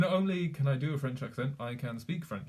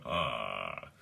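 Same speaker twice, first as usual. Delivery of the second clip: low drawn-out "ahh"; long low scraping "ahh"; too-raspy "ah" demo. Shown as a demonstration. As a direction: drop low and drag out an "ahh". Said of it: "It's too much of a".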